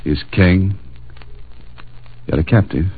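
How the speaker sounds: the answer dawning as he says it; working out the riddle. Retold or imitated. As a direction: piece it together step by step. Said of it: "King of the beasts, the lion".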